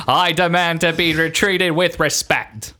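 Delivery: put-on Boston accent. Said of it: "I'm a man from Boston".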